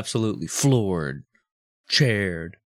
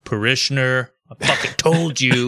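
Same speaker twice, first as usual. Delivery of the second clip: defiant yell; 4 dB louder, slower than usual. Pretend. Drunk yelling at everyone.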